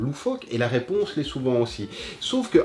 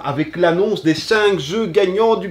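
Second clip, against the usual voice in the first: booming prize announcer; 6 semitones higher, 8 dB louder than usual. Acted. Announcing the award winners.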